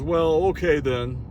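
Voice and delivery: slow, drawn-out mock concession; imitated backing down. Accuser hears the cop saw it, mock concession. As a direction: mimic him reluctantly giving in.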